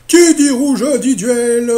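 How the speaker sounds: slow, high, loud announcer voice; host catchphrase. Retold or imitated. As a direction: boom it out like a TV host. Game show catchphrase. (phrase de présentateur, lente et forte)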